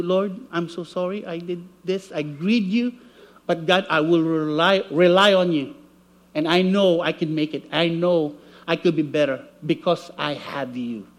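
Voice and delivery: soft, low, contrite prayer; humble prayer. Retold or imitated. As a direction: pray it quietly, humbly. Model prayer of repentance.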